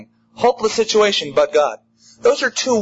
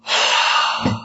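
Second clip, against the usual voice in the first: contented sigh. Retold or imitated. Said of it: "and we go".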